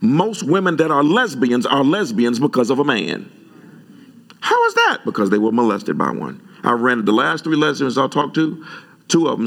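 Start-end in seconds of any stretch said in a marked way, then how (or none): 4.4-5.0 rhetorical question. Real, not acted.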